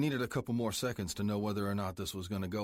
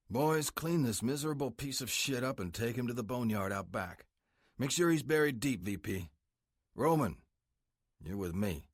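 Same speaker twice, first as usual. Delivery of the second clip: menacing biker boss; 2 semitones higher than usual. Acted. Club president threatening the cartel prisoner, menacing. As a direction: lean in and threaten him coldly like the boss. Prez gives orders.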